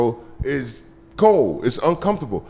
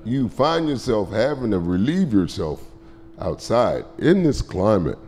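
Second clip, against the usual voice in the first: lightly voiced instructor; 8 semitones lower, 7 dB quieter than usual. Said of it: "And he said".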